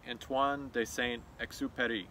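the name Antoine de Saint-Exupéry tried in a French accent; a light stab at a French accent on Antoine de Saint-Exupéry. Shown as a demonstration. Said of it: "Try to say that in my French accent".

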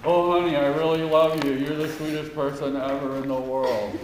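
deadpan "I really love you" with no feeling; flat fake affection. Shown as a demonstration. Choir director shows the singers a hollow, unconvincing love line. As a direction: say it sweetly but mean none of it. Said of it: "Do you believe me if I say this?".

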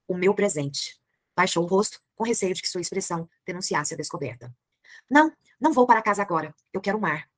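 reading a novel aloud to the class; measured literary narration; story reading. A narrator's reading. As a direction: read it like a storyteller. Teacher reads the novel aloud.

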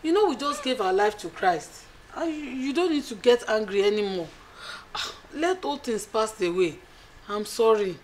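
a quiet apologetic appeal; husband softly begging his angry wife; soft pleading. Acted.

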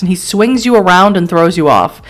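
measured dramatic game narration; story narration. A narrator's reading. Narrator setting a car crash scene for the player, story narration. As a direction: read it like a grim storyteller.

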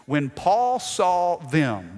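slow, drawn-out reading; slow deliberate scripture read; slowed for emphasis. Shown as a demonstration. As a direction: linger on each word. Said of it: "watch this".

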